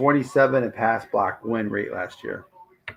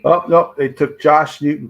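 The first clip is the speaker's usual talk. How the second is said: surprised dismay; 5 semitones higher, 8 dB louder than usual. Real, not acted. Reacting to a rival draft pick.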